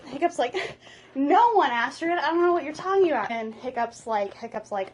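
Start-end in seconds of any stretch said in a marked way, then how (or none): 1.1-3.3 high, hurried playful denial; mock denial. Hiccup hides his dragon trainer from Astrid, mock denial. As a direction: deny it too quickly, voice lifted.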